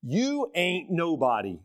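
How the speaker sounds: slow, soft Southern drawl on "You ain't nobody". Shown as a demonstration. Pastor teasing the congregation in a slow Southern accent. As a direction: lean into a folksy Southern accent, slowly. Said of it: "Is that Southern enough for you?".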